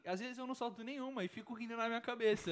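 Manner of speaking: giggling under the words; trying not to laugh; stifled giggles. Real, not acted. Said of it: "Ele não para de rir". (rindo contido)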